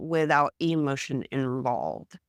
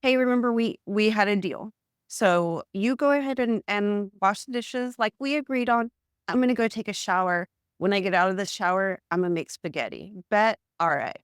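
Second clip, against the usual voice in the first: brisk, matter-of-fact reminder, pitched up; friendly but firm, quick pace; assertive; 4 semitones higher than usual. Shown as a demonstration. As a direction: state the deal plainly and move on. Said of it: "go to them and say".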